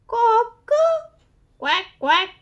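loud high crow, cut off into a quacking duck; crow turning into a quack. Acted. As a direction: start to crow, then quack. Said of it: "So he tried again".

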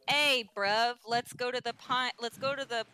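mock British accent. Shown as a demonstration. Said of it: "do our best British accent".

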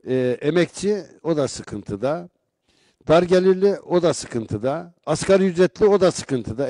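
rising rhetorical build. Real, not acted. Building list of struggling groups.

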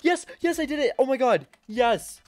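high, loud cries of victory; gasping, then shouting yes in disbelief; triumphant cheering. Real, not acted. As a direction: whoop like you just beat the level. Finishing a hard obby jump.

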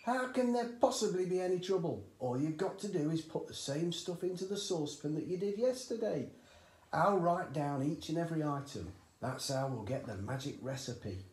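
high, loud, eager father; eager dad. A narrator's reading. Excited father urging his son at breakfast, high and loud. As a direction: push the boy on, thrilled with the idea.

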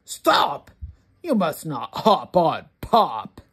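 a touch of a stern scold. Acted. Reader to child, mildly stern scold. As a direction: scold them to stop.

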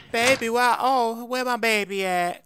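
high, put-on lover's call; calling for baby. Visitor calls for missing baby.

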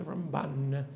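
ramBAN, last syllable drawn out; light Ram, lingering stressed BAN in Ramban; stress on second syllable. Shown as a demonstration. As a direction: Ramban leaning on the final BAN. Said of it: "the stress on the second syllable".

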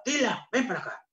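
high-pitched mock yell from across the house; a cook mimics her angry mother calling her. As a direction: call the girl over like her mother did. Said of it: "me gritaba".

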